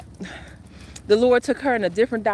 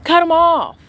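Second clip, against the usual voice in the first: higher, drawn-out comedian catchphrase; Dave Chappelle impression; 7 semitones higher, 4 dB louder, slower than usual. Quoting a comedian to dismiss the clowns, slow and high. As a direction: stretch out the dismissal like a stand-up punchline. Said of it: "What, what Dave Chappelle say?".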